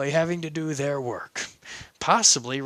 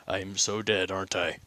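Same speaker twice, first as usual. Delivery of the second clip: soft and low, sure he is doomed; quietly resigned; lower, quiet dread; 8 semitones lower, 6 dB quieter than usual. Acted. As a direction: murmur it, resigned. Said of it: "As he goes".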